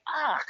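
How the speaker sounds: disgusted groan. Retold or imitated. Disgusted at classmate's supposed favor.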